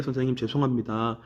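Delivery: low, soft, deferential student voice; imitating a humble, hushed apology; polite apology. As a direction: apologize meekly to a teacher. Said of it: "선생님께 공손하게".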